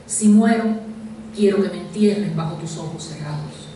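measured poem reading, pausing after each verse; deliberate literary delivery with falling line endings; poetry recitation. Acted. Recites own poem aloud.

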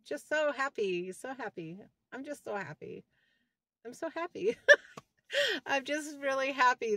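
choked up with real joy, half laughing; tearfully happy. Real, not acted. Patient tells viewers she finally has a game plan, tearfully happy. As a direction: let happy tears catch in the voice.

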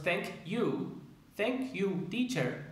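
"Thank you, thank you, teacher" each word apart; wrong separated way. Shown as a demonstration. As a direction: mimic a learner saying "Thank you" stiffly. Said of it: "no es".

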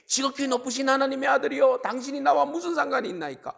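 high, loud possessed man crying out; high-pitched pleading outcry; loud demon's cry. Acted. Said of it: "큰 소리로 이야기하는 거예요".

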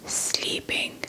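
ordinary delivery, nothing marked

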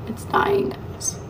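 high, wailing mock despair; a hammed-up high whine over dying hair; whiny mock wail. Real, not acted. Whiny repeat about hair.

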